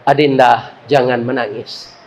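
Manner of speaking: lebih rendah dan lembut, menenangkan; lembut menghibur. Acted. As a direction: bujuk adik yang menangis dengan lembut. Director comforts crying patient. (direktur menghibur pasien yang menangis, dengan lembut dan rendah)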